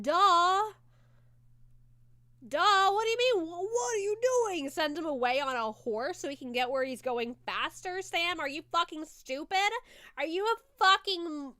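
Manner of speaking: exasperated, high, loud outburst; worked up. Real, not acted. Viewer scolding Sam for a foolish move, worked up. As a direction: rant in loud disbelief, pitch leaping up. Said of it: "I'm a little too worked up".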